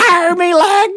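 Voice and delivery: high pirate cry; pirate shout. Acted. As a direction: throw in a mock pirate "arr" cry. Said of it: "he would have a lot more R's".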